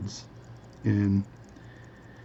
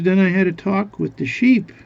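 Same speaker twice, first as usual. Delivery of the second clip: high, loud acted excitement; eager tall-tale teller; 9 semitones higher, 6 dB louder than usual. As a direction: build eagerly toward the punchline, pitched up. Guy eagerly continues tall tale.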